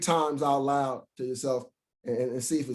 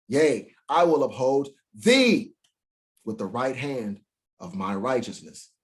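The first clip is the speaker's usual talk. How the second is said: plain. Acted. Reads scripture.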